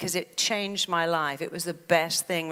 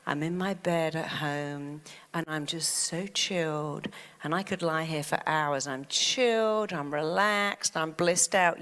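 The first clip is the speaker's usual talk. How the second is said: slow, drawn-out relaxed affirmations; chilled self-talk. Shown as a demonstration. Coach modelling kinder words to say to yourself, chilled. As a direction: savor each calm word, slowly. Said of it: "How about saying".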